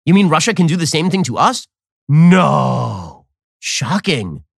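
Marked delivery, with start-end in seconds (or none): 2.1-4.5 flat mock shock, louder on no; deadpan sarcasm. Real, not acted. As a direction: fake surprise, dry. Sarcastic reaction to clip.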